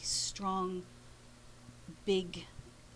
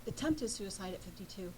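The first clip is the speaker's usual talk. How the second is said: quiet grave confession; 4 dB quieter, faster than usual. Retold or imitated. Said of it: "And he said".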